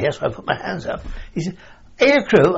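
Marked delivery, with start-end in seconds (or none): 2.0-2.6 high, loud astonished question; can't believe it, aircrew?; brother's startled question; surprised. Retold or imitated.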